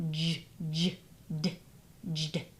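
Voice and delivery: isolated sounds. Shown as a demonstration.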